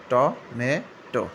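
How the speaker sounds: tomato the American way, টমেটো drawn out very slowly; American pronunciation. Shown as a demonstration. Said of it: "American". (American উচ্চারণে ধীরে টমেটো)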